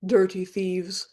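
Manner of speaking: slow croaky bird echo; a raven repeating the words slowly. Acted.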